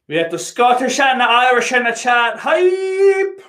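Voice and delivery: high, loud hype-man call; hype shout. Acted. Streamer announcing who's in the chat, hyped shout. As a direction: build to a long, high cry on the last word.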